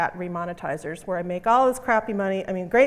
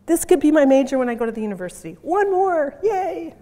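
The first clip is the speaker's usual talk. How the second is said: high, bright voicing of a young girl's words, louder; reading out a girl; 7 semitones higher, 6 dB louder than usual. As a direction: read the girl's subtitle like an eager student. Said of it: "Look what she said".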